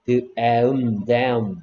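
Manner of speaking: "D, 에, 음" sound by sound, then blended "damn"; phonics-style blending of "D, 에, 음" into "damn". Shown as a demonstration. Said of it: "D가 D 소리 나니까".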